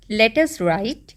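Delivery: each word drawn out; slow dictation. Shown as a demonstration. Teacher slowly dictating the task to pupils. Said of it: "teacher dictating slowly".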